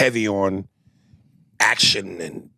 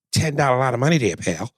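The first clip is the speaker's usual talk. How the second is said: put-on Wahlberg Boston accent; faster than usual.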